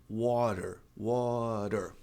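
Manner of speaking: "water" with the T as a quick tapped R; flapped T. Shown as a demonstration. Teacher showing the pronunciation of água, flapped T. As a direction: turn the T in "water" into a tap. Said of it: "você pode transformar o T em".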